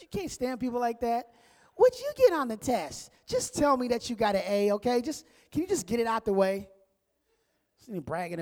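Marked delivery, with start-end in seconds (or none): 1.7-6.7 whiny voice. Retold or imitated. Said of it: "with this whiny voice".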